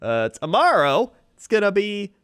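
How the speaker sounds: light TV weather forecast; weatherman. Pretend. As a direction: deliver the forecast like local TV. Plays a weatherman.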